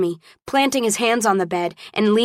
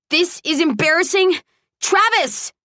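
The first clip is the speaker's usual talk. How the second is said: high, exasperated outcry; indignant protest; 10 semitones higher than usual. A narrator's reading. Carried woman scolds him as she struggles, exasperated. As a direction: climb high on the name in protest.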